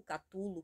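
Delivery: Catulo, said as ca-TU-lo; alternative pronunciation. Shown as a demonstration. Vlogger listing guesses at a monster's name, alternative pronunciation Catulo. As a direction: offer Catulo as another guess at Cthulhu. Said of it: "ninguém nunca pronuncia aquela porra certa".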